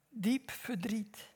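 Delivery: hushed whisper on the sorrow. A narrator's reading. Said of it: "unvoiced whisper".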